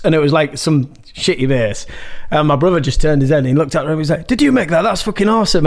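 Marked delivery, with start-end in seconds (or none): 4.3-5.6 impressed brother's exclamation. Retold or imitated. Retells brother's amazed reaction.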